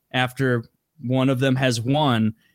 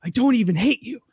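higher, emphatic protest; pleading insistence; 6 semitones higher than usual. Retold or imitated. Host protesting to the contestants, insistent. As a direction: insist it, rising on the repeat. Acting Sam starting his meltdown.

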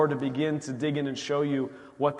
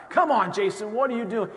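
higher and louder, mock kicking yourself; self-scolding; 6 semitones higher, 3 dB louder than usual. Jason berating himself for ignoring the warning, higher and louder. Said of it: "I'm not blaming God".

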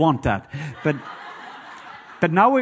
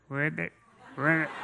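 1 faint frog croak; 10 dB quieter than usual. Retold or imitated. Frog heard through headphones.

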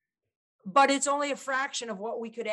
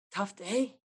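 softer, gentle question with a rising end; deferential; 3 dB quieter than usual. Shown as a demonstration. Salesman to an agitated customer, softly deferential. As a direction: ease into it with respect. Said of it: "But with the deference".

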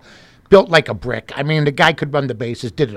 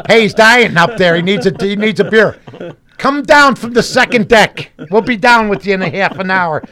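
loud, raised-voice ballpark holler; mock vendor shouting; 4 semitones higher, 5 dB louder than usual. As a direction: holler it across the stands like a vendor. Acting out vendors shouting at him.

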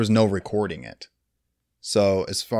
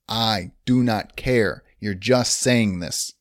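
slow, deliberate retold brush-off; mildly acted, drawn-out refusal; dismissive shutdown; 3 semitones lower, slower than usual. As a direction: shut them down word by word, slowly. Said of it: "he just keeps shutting her down".

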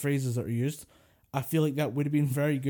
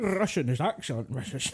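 Connery impression. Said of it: "he says it like this".

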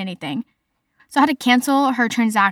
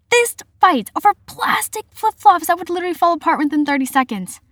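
high, louder disbelieving rant; incredulous outrage; 7 semitones higher, 4 dB louder than usual. Real, not acted. Retail worker recounting flip-flop sale fights, incredulous. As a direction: stress the absurdity, pitch jumping way up.

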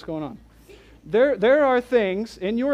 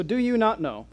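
sarcastic; 4 semitones higher than usual. Retold or imitated. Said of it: "Kinda comes with a bit of sarcasm".

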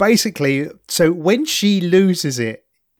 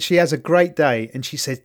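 usual speaking voice

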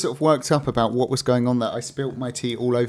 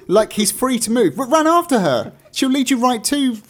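rising, louder exasperation; worked up; 8 semitones higher, 3 dB louder than usual. Real, not acted. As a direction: get heated and high. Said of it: "I'm getting worked up about this".

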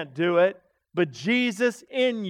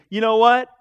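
louder, smug praise from the pew; mock smug churchgoer; 4 semitones higher, 8 dB louder than usual. Proud listener praising the preacher, loud and smug. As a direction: talk yourself up as the righteous one. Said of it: "We cannot sit back and say".

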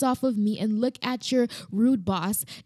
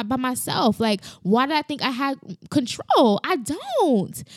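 emotional outburst; 5 semitones higher than usual. Real, not acted. Reliving her cry to God, raised and emotional. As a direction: pour it out to God, overwhelmed. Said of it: "I wasn't supposed to get emotional".

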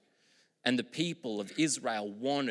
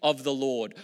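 high, loud crowd cry of hosanna; 6 semitones higher, 5 dB louder, slower than usual. Retold or imitated. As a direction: call it out like the crowd at the gate. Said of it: "they cried out".

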